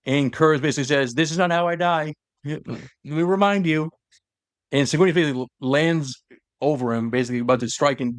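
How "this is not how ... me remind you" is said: menacing prisoner. Retold or imitated. Prisoner taunting his executioner.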